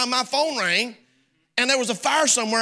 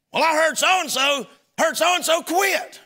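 whiny caller; 8 semitones higher than usual. Retold or imitated. Caller explains the rumor.

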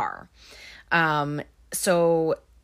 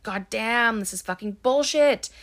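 retold outburst, pitched up but not screamed; higher-pitched mock exasperation; mock angry scream; 4 semitones higher than usual. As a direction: imitate his furious swearing at moderate volume. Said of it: "starts screaming".

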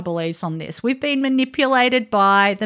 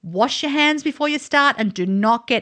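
measured reading of a blog post; lightly performed storytelling read; reading aloud; 3 semitones higher than usual. Acted. Reads aloud from guest's blog.

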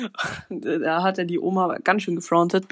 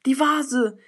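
startled grandmother; 5 semitones higher than usual. Acted. Schreckt auf und sagt.

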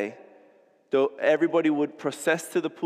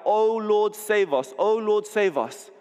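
higher, pleading festival chant, lightly voiced; crowd crying out; 5 semitones higher, slower than usual. Preacher voices the crowd crying to God, mild chant. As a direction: echo the crowd's cry to God. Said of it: "in the midst of them crying out".

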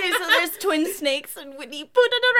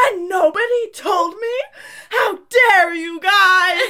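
put-on childish indignation; 6 dB louder, slower than usual. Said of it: "she's like".

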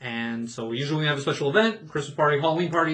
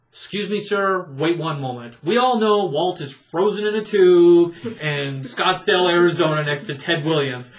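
dead serious; 3 semitones higher, 6 dB louder than usual. Retold or imitated. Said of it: "I was dead serious when I told him".

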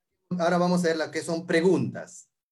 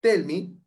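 "Tell" said louder; stress on tell; 3 semitones higher, 5 dB louder than usual. Shown as a demonstration. Teacher contrasts tell me for students, stressing "Tell". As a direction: hit "Tell" firmly. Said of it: "Tell, es decir".

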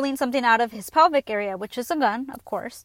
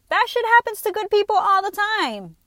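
emphatic; 8 semitones higher, 5 dB louder than usual. Real, not acted. Ranting about karma believers.

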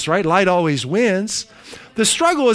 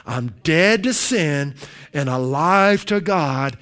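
slow recitation; 5 semitones lower than usual. Shown as a demonstration. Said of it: "Imagine yourself now".

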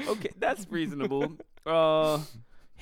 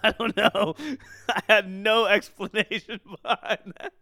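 laughing; 4 dB louder than usual. Real, not acted. Answer laughs at own word.

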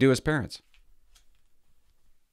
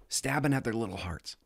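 soft unvoiced whisper; hushed aside; 5 dB quieter than usual. Real, not acted. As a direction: whisper the hurtful image. Reflective aside.

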